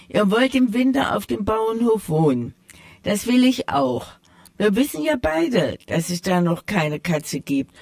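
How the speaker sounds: a hint of a proud tomcat setting things straight; sly tomcat. The tomcat corrects the mice, lightly voiced and proud. Tomcat explains his plan.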